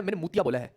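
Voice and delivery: मुतिया with a clear m sound; clear pronunciation. Shown as a demonstration. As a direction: stress the m in मुतिया, not a swear. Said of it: "चू नहीं बोला, मुंह बोला है". (मुतिया को साफ़ म से बोलें)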